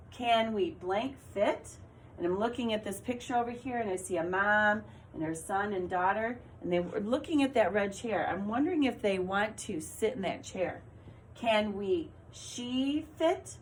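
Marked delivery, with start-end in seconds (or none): 0.1-1.7 "Can we blank fit?" read slowly, rising on "fit"; question rise. Shown as a demonstration. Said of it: "change my voice to show that I'm asking a question". 11.3-13.6 slow, testing "she" in the blank; slow trial read. Shown as a demonstration. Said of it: "That didn't make sense".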